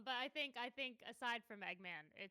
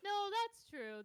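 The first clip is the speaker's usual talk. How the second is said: loud, high agreement; emphatic agreement; 8 semitones higher, 7 dB louder, slower than usual. Real, not acted.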